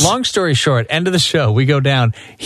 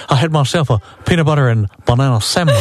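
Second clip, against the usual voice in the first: lightly voiced singer impression telling his lunch; a hint of the singer talking to the comedian; famous singer impression. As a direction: play a famous singer, deadpan. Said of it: "I'm in full costume".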